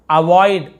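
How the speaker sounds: अवॉइड with an open 'aw-i' glide; अवॉइड said as a-VAW-id. Shown as a demonstration. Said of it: "आई, थोड़ा आई".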